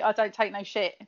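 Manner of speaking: harsh Kent accent, lightly demonstrated; a touch of harsh Kent. Shown as a demonstration. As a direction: show how it sounds in a Kent accent. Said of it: "because with a Kent accent".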